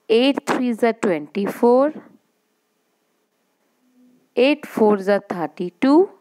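chanted times table, each line rising; slow sing-song recitation for the class; slow school dictation. Shown as a demonstration. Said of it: "I will read it again".

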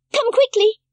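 high, loud urgent call. A narrator's reading. Heidi urges grandfather to come quickly, loud and high. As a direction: hurry him out to you. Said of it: "called out loudly".

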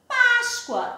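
"Páscoa" slowly, as pás-cua. Shown as a demonstration. Teacher gives pupils the everyday form, "Páscoa" with U sound. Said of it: "A gente sempre diz Páscoa".

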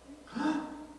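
short, high mock gasp. Preacher acting out a reaction to blunt words, mock gasp. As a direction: gasp as if taken aback.

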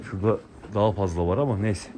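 normal talking voice

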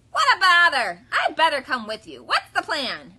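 loud, high honking goose; cross goose. A narrator's reading. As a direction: honk it with annoyance. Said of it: "asked the goose".

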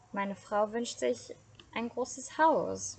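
slow, hesitant and timid; a fearful husband asking slowly; anxious murmur. Acted. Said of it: "murmelte der Fischer ängstlich".

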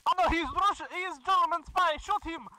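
put-on Russian accent, raising the alarm; panicked comic Russian accent; excited fake Russian accent. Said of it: "doing this accent".

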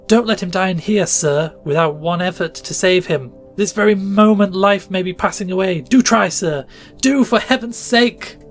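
high, loud desperate begging; frantic pleading. A narrator's reading. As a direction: plead with him to save her son. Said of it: "with a burst of passion amounting almost to frenzy".

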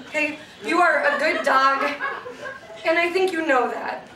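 awkwardly earnest, halting talk to a dog; regular-person voice. Acted. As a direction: address the dog like an adult friend. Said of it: "talk to him like a regular fucking person".

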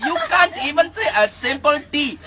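loud, high-pitched put-on indignation; mock exasperation. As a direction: scold a hopeless pupil in comic outrage. Mock-exasperated Indian-accent teacher scolds pupil.

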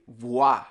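"voy" merged with a into one syllable, "vwa"; words run together. Shown as a demonstration. Teacher showing linked words, merged into one. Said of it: "put words together".

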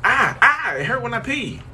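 high, loud pained squeal; mock pained cry. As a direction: squeal it like it burns. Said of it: "You go in the bathroom one day".

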